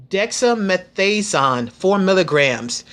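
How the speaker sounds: careful, moderately slow Dexamethasone; said slowly. Shown as a demonstration. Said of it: "I'm gonna try to say it slow".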